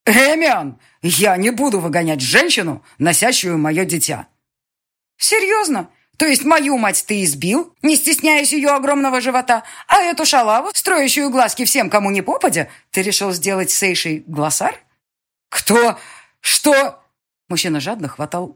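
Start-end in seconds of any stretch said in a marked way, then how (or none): 0.1-4.3 loud firm rebuke; lightly voiced stern father; stern refusal. 5.2-14.8 high, loud accusing outrage; furious accusation. Acted. Daughter accuses father. 15.5-17.0 high, loud gasping questions; stunned. Acted. Father stunned.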